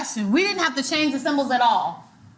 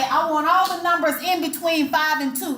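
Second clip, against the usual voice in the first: higher, as a doubtful example; pitched up, mildly dubious demo; questionable wrong phrasing; 4 semitones higher than usual. Shown as a demonstration. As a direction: offer it up as the odd-sounding version. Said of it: "do you say it like that".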